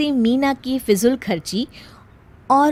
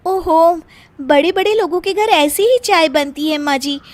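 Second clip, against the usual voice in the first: smug bahu; 5 semitones higher than usual. Acted. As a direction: lecture her with a smug air. Meena lectures mother-in-law. (सास को शान से समझाती बहू)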